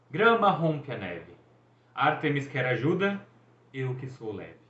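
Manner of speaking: lightly dramatic, slow poem reading; dramatic haiku recital. A narrator's reading. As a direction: recite it like a proud poet. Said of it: "ergueu uma das mãos dramaticamente". (recitando um haicai com leve pompa)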